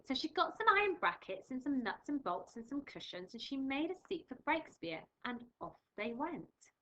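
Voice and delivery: lively storybook read-aloud; reading to children. Acted. Teacher reading a picture book to her class, lively.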